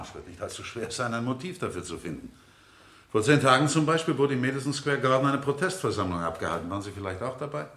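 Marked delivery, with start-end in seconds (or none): 3.1-7.7 louder, pressing the point; spring the trap on him; pointed challenge. Acted. Defence lawyer confronts the witness about a protest rally, loud and pressing.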